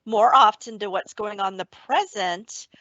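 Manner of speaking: calm, even meditation voice; guided meditation. Acted. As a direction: guide the listener gently back to the breath. Leads an awareness of breath meditation.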